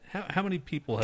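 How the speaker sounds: hushed whisper, like passing a secret; mock-secretive whisper; conspiratorial whisper. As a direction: whisper it so nobody overhears. Whispered aside about DMing LSD.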